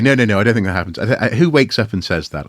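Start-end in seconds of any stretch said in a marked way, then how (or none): 0.0-1.0 louder, insistent "No, no, no, I don't think that happens"; a student firmly repeats his disagreement; emphatic repeat. Retold or imitated. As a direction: press the point harder this time. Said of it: "I say".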